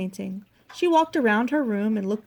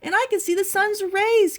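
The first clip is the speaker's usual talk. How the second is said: excited cry, high and louder; Porcupine; 10 semitones higher, 5 dB louder than usual. A narrator's reading. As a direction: join in with a delighted exclamation. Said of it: "cried Porcupine".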